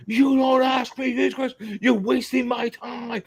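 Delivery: high, slow mocking voice of the artist; mock angry artist. Retelling the artist brushing off his question, high slow mock scold. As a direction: drag it out high like a petty tyrant. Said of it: "So he's like".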